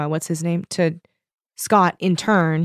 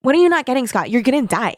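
exasperated, higher-pitched retold protest; mock freak-out; 5 semitones higher than usual. Book heroine arguing with Scott, mock exasperation. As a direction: imitate someone at their wits' end. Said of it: "Who's freaked out for".

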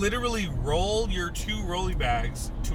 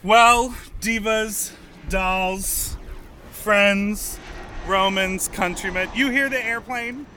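loud, high, mock-grand Friends Romans countrymen speech; grand address; 5 semitones higher, 7 dB louder, slower than usual. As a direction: proclaim it like an orator on a stage.

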